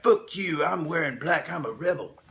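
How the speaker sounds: hammed-up brooding rebel, light touch; mock sulky rebel. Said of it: "He's like".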